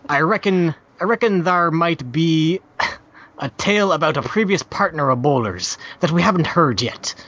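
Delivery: lightly voiced pirate reading; a hint of an old sea dog. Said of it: "read in a pirate voice".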